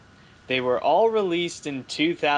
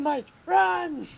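mock urgent call; 12 semitones higher than usual. Urging Mike to flee.

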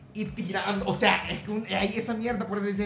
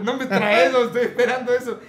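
louder, higher playful denial; loud playful protest; loud joking protest; 5 semitones higher, 8 dB louder than usual. Real, not acted. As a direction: wave it off loudly. Excited joking reply.

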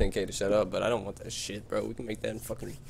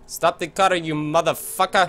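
yelled, high and loud; angry shout; 5 semitones higher, 4 dB louder than usual. Real, not acted. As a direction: bark it at the driver. Yelling at truck driver.

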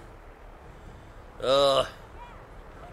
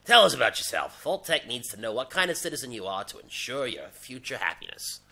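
lightly lowered official voice; deeper rep voice; 3 semitones lower than usual. Pretend. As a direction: play a smooth, confident Vault-Tec rep. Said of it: "that's the kind of voice the guy should have".

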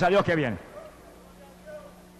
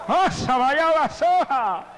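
much higher, very slow ecstatic cry; speaking in tongues; 10 semitones higher, much slower than usual. Real, not acted. Preacher prays over the congregation, ecstatic tongues. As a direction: pour it out in tongues.

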